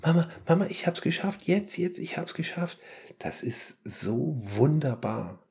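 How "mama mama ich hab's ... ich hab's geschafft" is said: put-on high, excited kid calling out; imitating son's triumphant shout. Boy shouting to his mum through the flat, high and triumphant. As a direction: call it through the flat like a boy who just won. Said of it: "Mein Junge schrie förmlich durch die Wohnung".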